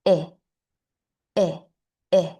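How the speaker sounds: "eh" said as "ih", the vowel in sit; short I sound. Shown as a demonstration. Teacher showing what the short I says, short I sound. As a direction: say "eh" as a short "ih", cut off in the throat. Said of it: "throat muscles to stop the airflow".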